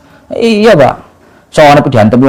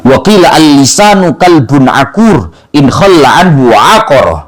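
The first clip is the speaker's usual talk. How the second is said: slow, measured Arabic quotation; formal scholarly recitation. Real, not acted. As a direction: recite the Arabic verse deliberately, drawing out the long syllables. Recites Arabic sayings in a sermon.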